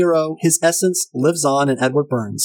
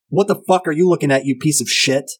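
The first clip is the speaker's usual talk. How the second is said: pissed-off quote. Retold or imitated. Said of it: "I love the delivery of this".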